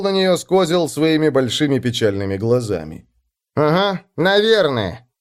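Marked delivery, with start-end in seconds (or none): 3.6-5.1 slow, high, downcast reply; sad voice. A narrator's reading. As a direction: answer as if resigned. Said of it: "сказал он".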